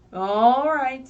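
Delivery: loud, bright All right; Skunk agreeing. Acted. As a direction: Skunk gives in cheerfully. Skunk answers in story.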